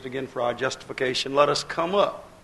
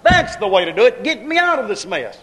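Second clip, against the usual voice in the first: high, loud anguished cry to God; a preacher voicing a man's desperate cry; desperate plea; 8 semitones higher, 7 dB louder than usual. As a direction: beg God to end it, crying out. Desperate plea voiced in sermon.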